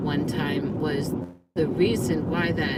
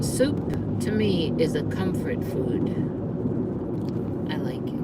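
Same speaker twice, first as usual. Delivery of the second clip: on a bumpy road. Real, not acted. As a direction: voice jolted by road bumps. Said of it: "sorry about the bumps".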